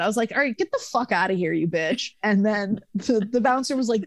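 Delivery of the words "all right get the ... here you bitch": losing it. Retold or imitated. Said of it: "I lost it".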